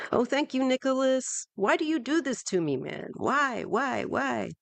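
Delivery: high, playful mock despair at the tipper; mock exasperation. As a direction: whine it up high like you're teasing a friend. Viewer tip interrupts the reading.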